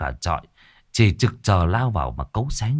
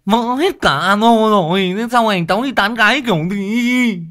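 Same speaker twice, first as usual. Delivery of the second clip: high, loud, slurred wail through broken teeth; lisping lad whining, much higher and louder; stammering with a smashed mouth; 11 semitones higher, 5 dB louder than usual. A narrator's reading. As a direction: moan around a bloody mouth. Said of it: "nó lắp bắp".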